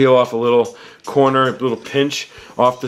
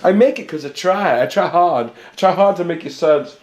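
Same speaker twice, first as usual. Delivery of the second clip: excited; 5 semitones higher than usual. Real, not acted. Excited about her suds.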